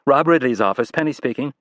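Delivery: a polite assistant answering; secretary on the phone. Acted.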